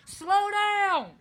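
high, loud yell of "slow down"; panicked yell. Retold or imitated. Yelling at wife towing him, panicked high shout. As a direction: shout for dear life from the mower. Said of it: "I'm saying".

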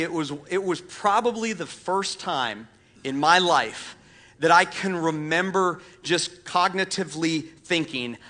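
ordinary talk

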